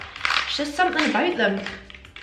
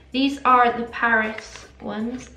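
"Paris" said with a lisp, the s blurred; 5 dB louder, slower than usual. Real, not acted. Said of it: "I'm lisping really bad, I'm saying Paris".

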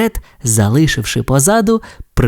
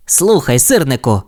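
interrupting race car. Acted. Race car interrupts the tow truck, doubtful. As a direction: break into the story. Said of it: "урвав раптом розповідь Блискавка".

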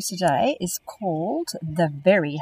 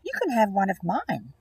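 lightly voiced polar bear. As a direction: offer the fish kindly, lightly voiced. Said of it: "what a kind polar bear".

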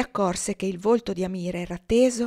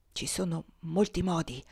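soft murmur; 3 semitones lower, 6 dB quieter than usual. A narrator's reading. Amira murmurs the secret to her friend, softly. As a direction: drop the voice low and soft. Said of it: "sussurrò Amira".

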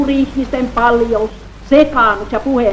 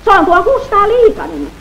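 1 high call; 10 semitones higher, 4 dB louder than usual. Acted. Voice from the valley answering.

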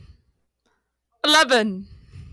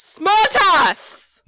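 raised-voice jab; irritated retort. Acted. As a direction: throw it back indignantly. Mimics the other's suggestion back angrily.

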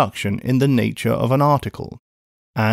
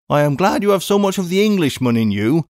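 raised, pleased spinster voice; a touch of prim approval from the housekeeper; approving Miss Pross; 5 semitones higher than usual. Acted. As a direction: approve of him heartily. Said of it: "said Miss Pross approvingly".

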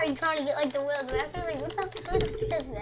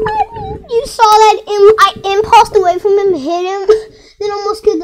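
much higher and louder, overjoyed; thrilled shout; 5 semitones higher, 16 dB louder than usual. Real, not acted. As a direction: yell it, buzzing with excitement. Thrilled by his own play.

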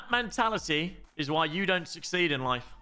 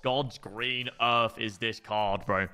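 disbelieving; 6 semitones lower, slower than usual. Real, not acted. Disbelief at a card.

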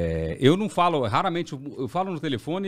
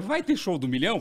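higher-pitched, taken-aback question; mildly surprised; 5 semitones higher than usual. Retold or imitated. Host phones the TV channel, mildly surprised question. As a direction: ask it as if it's news to you. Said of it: "Porque eu não sabia também".

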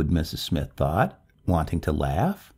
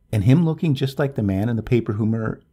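quick, louder, then cut off mid-word; breaking off abruptly; 6 semitones higher, 5 dB louder, faster than usual. A narrator's reading. Neighbor catches herself describing the man in the paper, breaking off abruptly. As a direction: stop dead halfway through the last word. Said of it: "she stopped abruptly".

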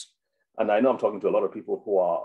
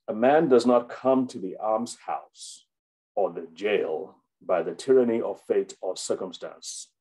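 slow, emphatic reading of a quotation; quote reading. Real, not acted. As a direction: read the quote out deliberately, weighing each phrase. Reads a quotation aloud.

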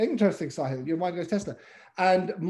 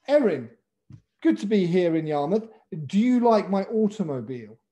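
stiff formal wording; 4 dB louder than usual. Shown as a demonstration. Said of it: "You just would never say that".

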